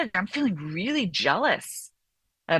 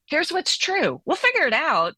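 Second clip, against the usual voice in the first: calm inner voice; 7 semitones higher than usual. Retold or imitated. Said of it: "the ordering part of your brain that just says".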